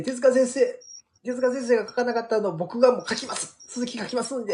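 retold tearful vow. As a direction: re-enact an earnest promise to a late master. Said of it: "もうテレビに向かって".

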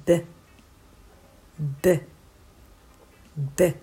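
"ブ" as a short voiced burst from closed lips; voiced B plosive. Shown as a demonstration. Teacher demonstrating phonics B, short voiced plosive "ブ". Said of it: "唇を合わせて破裂させます".

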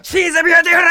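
loud high shout; shouted line. Retold or imitated. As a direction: belt it out as a finale. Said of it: "っつって終わるやん".

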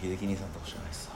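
talking through a yawn; words dragged out by a yawn. Real, not acted. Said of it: "あくびしながら言われてもね".

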